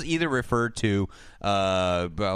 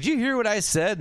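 mock coach voice; 12 semitones higher than usual. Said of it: "Brandon's like".

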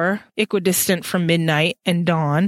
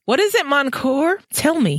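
gentle; 8 semitones higher than usual. A narrator's reading. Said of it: "he said gently".

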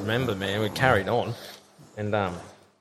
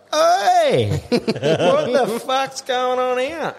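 indignant yell; 12 semitones higher, much slower than usual. Retold or imitated. Drinker confronting an intruder in his bed, indignant yell. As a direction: act out an outraged challenge on finding someone in your bed.

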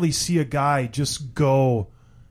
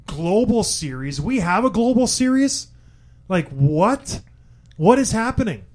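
baffled surprise; 4 semitones higher, slower than usual. Retold or imitated. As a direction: act shocked and confused. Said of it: "I was like".

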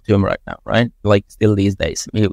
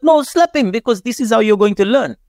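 higher, insistent retold order; mock insistent boss; 10 semitones higher than usual. Boss insisting the young worker learn, raised insistent voice. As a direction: push the order like a pushy boss.

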